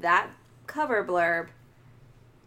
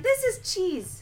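mock scoffing voice; 10 semitones higher, slower than usual. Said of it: "I'd be like".

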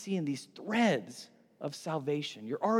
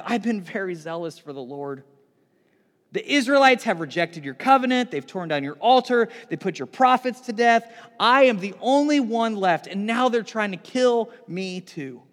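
Elijah's complaint; 3 semitones higher, 6 dB louder than usual. Acted. Elijah pleads his case.

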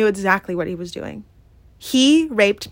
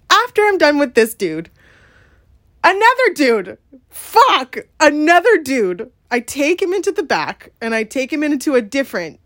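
keyed-up retelling. Real, not acted. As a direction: push on, still rattled and raised. Bracing listeners for next story.

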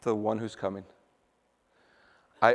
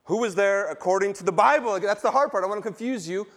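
fervent preaching; 6 semitones higher, 4 dB louder, faster than usual. Real, not acted. Preacher pressing the congregation.

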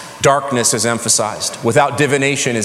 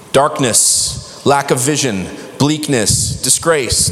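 "darkness", "lack of vision", "bleakness", "disgrace" in quicker succession, each falling; hitting words quickly; slower than usual. Real, not acted. Preacher repeating the list for listeners, hitting the words quickly. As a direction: run down the list word by word with short gaps. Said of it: "Should I hit the words again real quick".

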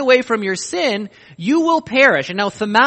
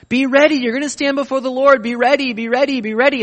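higher, louder urgent repetition; urgent call; 5 semitones higher, 4 dB louder, faster than usual. Real, not acted. Preacher urging the church to be ready, louder and urgent. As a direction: drive the command home.

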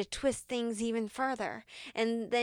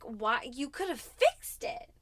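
raised pitch, pleading and accusing God; retold angry prayer; 3 semitones higher than usual. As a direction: confront God, high and strained. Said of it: "I was even mad and so angry".

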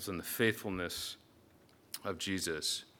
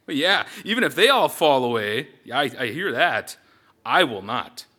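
boastful protest; 3 semitones higher, 9 dB louder than usual. Acted. Peter boasts he won't fall.

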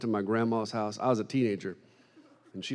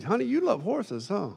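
sweet high call; 8 semitones higher than usual. Retold or imitated. Speaking sweetly to waitress.

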